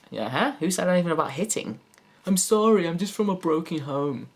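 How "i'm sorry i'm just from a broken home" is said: high, meek apology; timid apologetic woman. Acted. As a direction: whimper an excuse like a victim. Same cowering woman voice.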